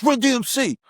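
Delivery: put-on calling out the name in a light Japanese accent; a Japanese fan's call, lightly imitated. Japanese fan hailing the group at the airport, light Japanese accent. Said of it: "with that Japanese accent".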